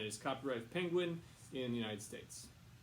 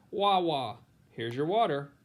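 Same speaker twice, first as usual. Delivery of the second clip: put-on baby talk; 5 semitones higher, 13 dB louder, slower than usual. Baby Helen asking for water.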